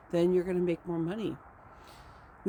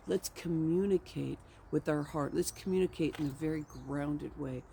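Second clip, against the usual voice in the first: grounded speaker. Retold or imitated. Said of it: "I say".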